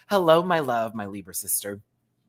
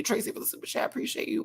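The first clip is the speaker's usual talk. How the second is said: whisper; 10 semitones higher, 6 dB quieter, faster than usual. Real, not acted. Thanking donor.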